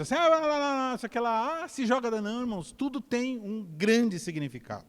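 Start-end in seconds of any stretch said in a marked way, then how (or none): 0.1-2.1 high, throwaway la-la babble; airy imitation of loose talk; mock careless chatter. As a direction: toss out empty words, pitched up. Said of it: "palavra solta no vento".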